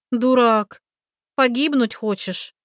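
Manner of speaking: loud, high scolding shout; angry. Acted. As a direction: snap at a fool. Oksi scolding loudly.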